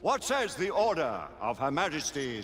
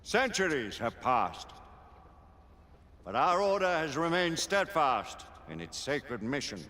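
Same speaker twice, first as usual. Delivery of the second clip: grave ceremonial address to the knights; solemn oration to the assembled order; formal speech; 2 semitones higher than usual. Acted. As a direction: open the council with gravity. Lord Chancellor addresses the council.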